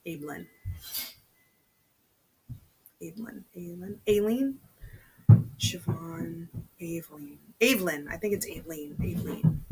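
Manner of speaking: tentatively sounding out "Evelyn" and "Aileen" several ways, unsure of the Irish name; trying Irish pronunciations. Shown as a demonstration. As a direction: test the name aloud, searching for the right sound. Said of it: "How would you say that?".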